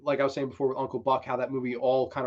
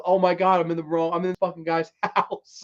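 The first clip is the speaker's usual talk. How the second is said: mock dismay, somewhat louder; dawning realization; 4 semitones higher, 3 dB louder than usual. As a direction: act out realizing the blunder, breaking into a laugh. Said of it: "this fucking realization of".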